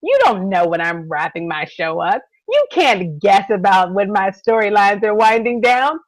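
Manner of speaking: lightly voiced showrunner correcting her viewers; showrunner's retort. Showrunner telling fans they can't guess, lightly voiced retort. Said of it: "She has said".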